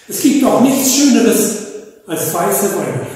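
high, laughing rapture that settles; enraptured. Acted. Polar bear swoons over white Christmas: high laughing gush. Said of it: "Und er schwärmte verzückt".

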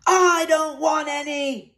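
big gruff knight boom. A narrator's reading. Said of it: "boomed Horace the Horrible".

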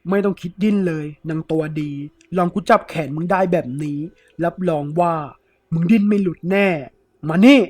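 starts firm, ends in a loud yell; rough threat building. Acted. Thief gripping the woman's arm, building to a shout. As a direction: taunt her then roar. Thief holds her wrist.

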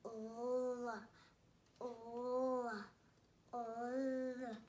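"L" as a long held "llll", not "ell"; phonics L sound. Shown as a demonstration. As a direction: hold each "L, l, l" as a drawn-out consonant.

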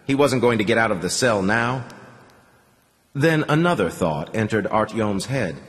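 usual speaking voice

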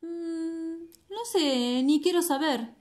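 grumpy toad voice. Acted.

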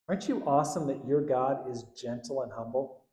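usual speaking voice

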